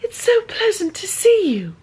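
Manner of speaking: a hammed-up put-on gent line. Imitating the audiobook narrator doing a man, hammed up. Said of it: "she'll lower her voice like this".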